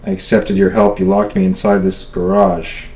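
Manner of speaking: loud, furious yell; angry yelling. Acted. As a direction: yell the accusation. Man yells at AI.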